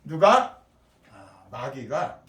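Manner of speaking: usual speaking voice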